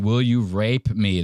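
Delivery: rate heard as rape; slow Will you rape me; mock mishearing of rate as rape. Shown as a demonstration. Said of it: "sounds like they're saying".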